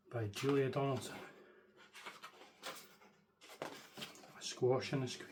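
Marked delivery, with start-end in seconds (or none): 3.6-5.3 soft slow whisper of the title. Shown as a demonstration. Reader whispering the book title to children. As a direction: breathe the title like a secret.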